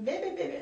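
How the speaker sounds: high little burst of mock chatter; mimicked yapping. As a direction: imitate a woman yapping away. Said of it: "she's still like this".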